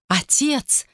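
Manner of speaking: high alarmed cry of father. A narrator's reading. Daughter bursts in crying out to father in alarm. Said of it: "закричала она".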